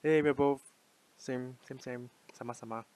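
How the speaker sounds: light Singaporean in-group accent; Singaporean English. Shown as a demonstration. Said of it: "I would use with a Singaporean".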